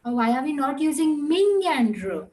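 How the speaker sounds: imitated student question. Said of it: "y'all must be having a doubt".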